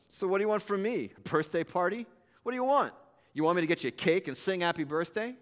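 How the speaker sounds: sneering, scornful questions; nasty tone. Acted. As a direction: throw the words at her with contempt. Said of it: "in a nasty tone".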